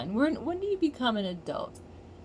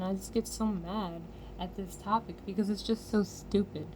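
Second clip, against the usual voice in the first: normal talking voice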